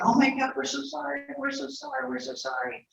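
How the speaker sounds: high, pleading, hammed-up sobbing sorry; a hint of tearful brothers pleading with their lost brother; mock crying apology. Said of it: "crying and carrying on".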